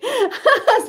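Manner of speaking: a short bright high laugh; high giggle. Real, not acted. Vlogger to chat, giggling high.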